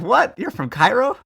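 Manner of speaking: high, rising disbelief; can't believe her ears; astonished. Retold or imitated. The American tourist learns the boys are from Cairo, amazed.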